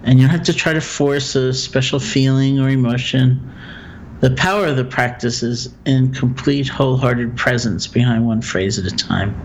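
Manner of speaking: calm, measured meditation guide with long pauses; guided meditation. Acted. Teacher guiding a listener through loving-kindness phrases, guided meditation. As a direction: guide them gently through it, leaving room for silence.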